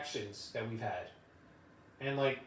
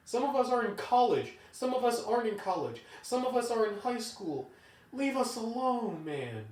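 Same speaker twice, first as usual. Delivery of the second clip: much higher, loud fed-up yelling; high, heated outburst, louder on key lines; furious rant; 9 semitones higher, 4 dB louder than usual. Retold or imitated. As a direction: blow up at the boss who treats you like a child. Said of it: "you just sitting there like".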